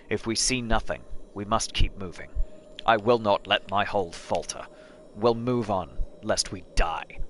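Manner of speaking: solemn storyteller reading; bard narration. Acted. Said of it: "that's my bard voice".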